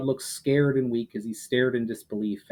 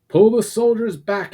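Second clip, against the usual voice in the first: loud commanding shout, much higher; shouted order; 10 semitones higher, 8 dB louder than usual. A narrator's reading. Commander shouting to his troops to pull back, loud. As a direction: bark the retreat order across the field. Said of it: "he shouted".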